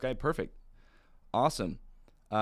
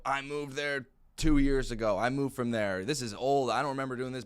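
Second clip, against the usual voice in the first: annoyed prospect; 3 semitones higher, 3 dB louder than usual. Retold or imitated. Prospect brushing off the caller.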